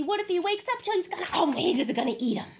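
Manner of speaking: fast, mock-anxious rush; mock worry. Real, not acted. Reader frets the dog will wake and eat them.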